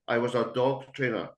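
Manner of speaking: emphasis on the word "dog"; stress on dog. Shown as a demonstration. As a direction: lean on "dog" in "dog trainer". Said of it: "I emphasised the word dog".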